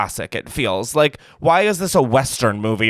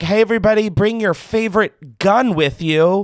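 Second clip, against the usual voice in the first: higher-pitched pretend party host; mock cheery invitation; 5 semitones higher than usual. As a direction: lightly play an eager host inviting everyone.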